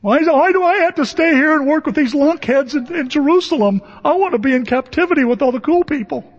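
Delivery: whiny Jeremiah. Retold or imitated. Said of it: "He just couldn't quit crying".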